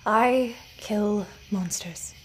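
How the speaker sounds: slow, level, unemotional; monotone. Acted. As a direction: say it dead flat and slow. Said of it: "Remus said, monotoned".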